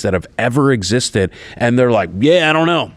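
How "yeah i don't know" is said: bad Asian accent. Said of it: "Bill has a bad Asian accent".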